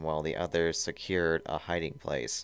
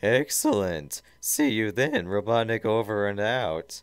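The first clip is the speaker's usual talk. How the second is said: loud, raised villain voice; Robotnik, commanding; 4 semitones higher, 5 dB louder than usual. Acted. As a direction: sign off like a tyrant. Robotnik signs off.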